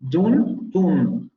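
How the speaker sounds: "Dun" with a single short vowel for "down"; Geordie dun. Shown as a demonstration. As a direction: clip "dun" with no glide. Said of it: "pronunciation of down and town".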